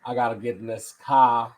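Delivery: Chicago accent. Shown as a demonstration. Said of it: "That's how we say it in Chicago".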